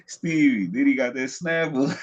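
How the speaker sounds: loud call across the room to Stevie. Real, not acted. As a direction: shout the question over to a friend. Calling out to someone off mic.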